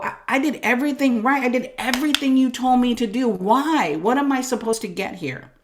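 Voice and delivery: mildly pleading, a touch aggrieved; half-mock the wronged victim asking why. Retelling her complaint to God, mildly pleading and aggrieved. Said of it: "easy to feel like a victim".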